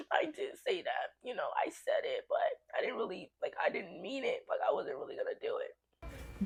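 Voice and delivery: soft, small, backing-down voice; meek mock confession. Retelling the girl's weak admission, soft and meek. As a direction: imitate her quietly taking it back. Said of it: "She like".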